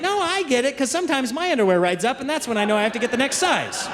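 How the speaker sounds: put-on high, earnest little boy explaining; a kid matter-of-factly reasoning; son's voice. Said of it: "He's like".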